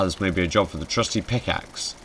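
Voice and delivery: ordinary talk, nothing marked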